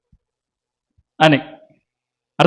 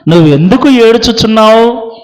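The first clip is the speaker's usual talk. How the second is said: louder, urgent plea to his wife; pleading husband; 4 dB louder than usual. Acted. Elkanah urging Hannah to stop crying and eat, loud and pleading. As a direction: call out to her, begging her to eat.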